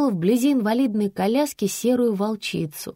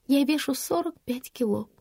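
high, softer pitiful squeak; plaintive squeak; 6 semitones higher, 5 dB quieter than usual. A narrator's reading. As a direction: squeak it out pitifully, a little higher. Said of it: "жалобно пискнула я".

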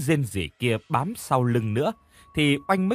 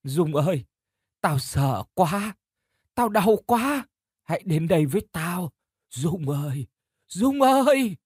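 slow, broken ghost wail, rising to a high cry; a spirit in pain calling her friend closer; sobbing ghost; 5 semitones higher than usual. Acted. Ghost of Trúc luring Dung to her, sobbing. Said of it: "trong tiếng khóc nấc quãng".

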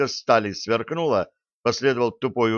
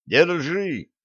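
higher-pitched urgent call; raised cry, not full volume; mild shout; 6 semitones higher than usual. A narrator's reading. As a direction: call out a quick order, moderately raised. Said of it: "крикнул я".

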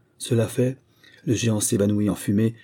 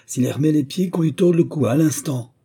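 much higher and louder booming command; commanding roar; 7 semitones higher, 4 dB louder than usual. A narrator's reading. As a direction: bellow the order at the spirits. The wind lord threatens the miller. (ordre tonné, bien plus aigu et fort)

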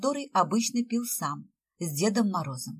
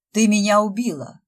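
hammed-up howl, louder, stress on «Ты»; 2 semitones higher, 8 dB louder than usual. A narrator's reading. Fyodor faking being scalded, hammed-up howl. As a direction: wail it like a mock death cry. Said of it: "провыл Фёдор".

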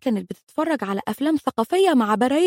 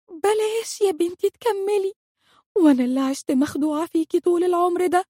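teary plea; 5 semitones higher than usual. Retold or imitated. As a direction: stretch بلاش يا بنتي out, stressing يا. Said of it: "والدموع تترقرق في عيناي".

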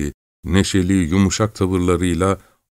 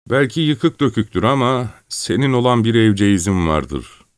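lightly voiced, rising into eagerness; a smuggler half-lost in memories of home; Çelkaş getting carried away; 4 semitones higher than usual. Çelkaş praises village life.

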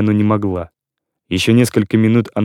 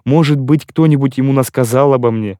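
agitated pleading; 3 semitones higher than usual. Acted. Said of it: "закричала она".

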